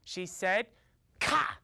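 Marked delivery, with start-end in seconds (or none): 1.2-1.6 one short, high caw; crow's rebuff. Acted. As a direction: cut him off with a single caw. Mother crow rebuffs him.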